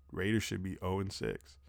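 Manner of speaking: usual speaking voice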